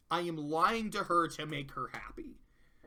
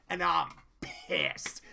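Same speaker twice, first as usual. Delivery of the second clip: whisper; 3 semitones lower, slower than usual. Retold or imitated. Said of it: "a Pinky who's like".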